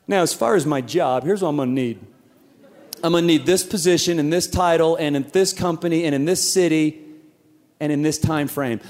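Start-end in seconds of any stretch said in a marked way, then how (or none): 1.2-8.8 demanding list. Retold or imitated. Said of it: "we say things like this".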